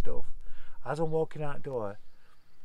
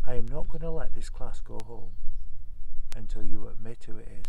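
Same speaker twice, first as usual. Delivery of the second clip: stern teacher; 3 semitones lower, 9 dB louder than usual. Retold or imitated. Teacher refuses to release class.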